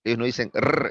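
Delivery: rrr trilled with the tongue tip; Spanish rolled R. Shown as a demonstration. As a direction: roll the rrr up front. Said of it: "la R en francés es atrás".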